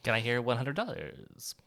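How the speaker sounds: hologram doctor impression. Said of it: "that's my hologram doctor impression".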